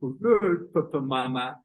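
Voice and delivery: little brother with jutting chin; acted odd-jawed small brother; chin forward. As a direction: bedtime call through a thrust-out jaw. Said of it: "the chin is forward".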